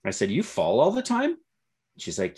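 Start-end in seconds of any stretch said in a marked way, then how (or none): 0.3-1.4 high, rising echo of disbelief; a gently teasing, incredulous echo; mock surprise. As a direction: repeat it back, amazed. Father echoing daughter in surprise.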